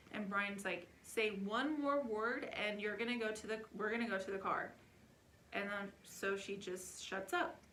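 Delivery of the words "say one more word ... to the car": stern warning. Retold or imitated. Dad warning daughter.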